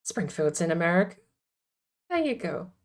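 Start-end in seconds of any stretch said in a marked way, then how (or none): 2.1-2.7 quiet Marge try. Acted. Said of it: "I sound like I'm from Springfield".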